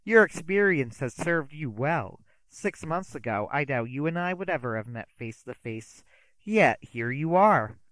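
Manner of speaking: theatrical magician. Acted. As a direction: sweep the words out like a stage magician. Magician taunts detective.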